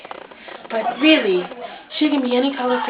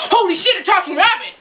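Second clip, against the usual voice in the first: startled surprise; 7 semitones higher than usual. Acted. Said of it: "little Peter goes".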